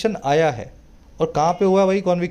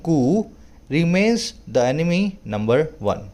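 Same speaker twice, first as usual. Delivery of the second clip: slow, deliberate reading of an English passage; careful classroom read-aloud; slow news reading; much slower than usual. Acted. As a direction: read each phrase out slowly for learners. Reads news passage aloud slowly.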